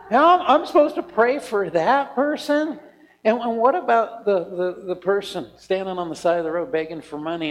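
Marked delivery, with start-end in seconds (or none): 0.1-2.8 mock indignant protest.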